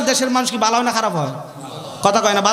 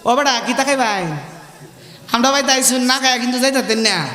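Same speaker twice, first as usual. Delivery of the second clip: Mymensingh dialect. Retold or imitated. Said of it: "মমি সিংহের ভাষা আছে না?".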